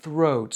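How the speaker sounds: THROAT opening on a blown TH; clear TH. Shown as a demonstration. Teacher contrasts TH with S, careful TH demo. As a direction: say THROAT with tongue on teeth, not an S. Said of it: "et le T H de".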